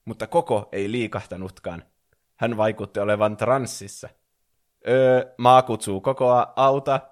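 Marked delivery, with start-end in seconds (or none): 4.9-7.0 loud, raised, impatient call; snapping. A narrator's reading. Brother calling his entranced sister to help, snappish and loud. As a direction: snap at her to pay attention. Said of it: "Crash tiuski".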